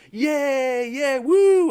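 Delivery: high, loud whooping cheer; mock cheering. Fired workers celebrating as they run out, high loud whoop. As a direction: cheer like you've been set free. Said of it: "they were all like".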